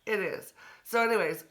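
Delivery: usual speaking voice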